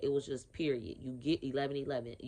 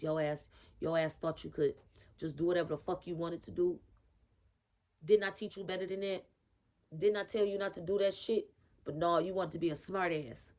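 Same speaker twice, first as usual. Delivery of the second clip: angry scolding grandma; faster than usual. Retold or imitated. Channelling a pissed-off big mama scolding the reader, fast and angry. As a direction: scold like a furious nana. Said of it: "she is pissed off".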